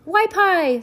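put-on high shrieking baby voice; a baby's sudden shriek. A narrator's reading. Baby Sunny shrieking at the judge. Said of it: "Sunny shrieked".

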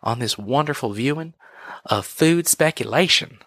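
slow, lightly put-on tour guide welcome; Captain Cook host. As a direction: play a hokey tour host, stretching it out. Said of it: "if I did a whole show like that".

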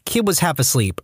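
ordinary delivery, nothing marked

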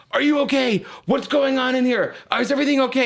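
hammed-up worried officers; imitating the police. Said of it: "They're like".

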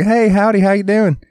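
high, twangy mock redneck greeting; hammed-up redneck accent. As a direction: imitate a country girl's redneck howdy. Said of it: "You used to talk like".

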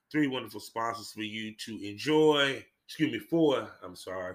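a little tipsy, stumbling over words. Real, not acted. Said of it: "'cause I'm a little tipsy".

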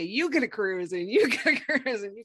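lightly voiced giveaway host, laughing; a hint of the big TV giveaway; Oprah. Wishing she could gift cruises like a talk-show host. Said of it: "I wish I had Oprah money and I could say".

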